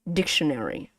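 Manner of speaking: "dictionary" stressed on DIC, falling away after; teacher's model "dictionary", stress up front; first-syllable stress. Shown as a demonstration. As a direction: hit DIC in "dictionary", let the rest drop. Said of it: "Your stress is here".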